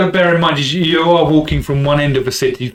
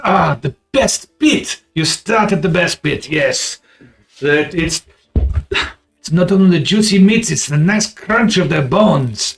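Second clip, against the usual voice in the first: relishing vendor voice; 3 semitones higher than usual. Acted.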